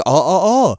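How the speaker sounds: slow, savouring villain gloat. Retold or imitated. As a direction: savour every word greedily. Gnome King voiced in retelling.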